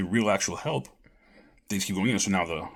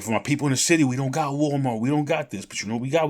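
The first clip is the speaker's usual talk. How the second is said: higher, louder mock announcement; imitating the big guy; 5 semitones higher, 4 dB louder than usual. Retelling a man naming local stores, higher mock voice. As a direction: boom it out a bit higher, playing him. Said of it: "He's like".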